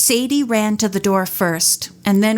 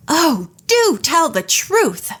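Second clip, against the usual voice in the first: exasperated cry; 7 semitones higher, slower than usual. A narrator's reading. Nancy seeing through Semmet's act, impatient exasperated cry. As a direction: lose patience with his lies. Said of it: "Nancy cried".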